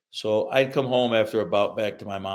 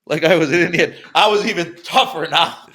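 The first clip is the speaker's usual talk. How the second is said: mock tough boast; 8 semitones higher, 10 dB louder than usual.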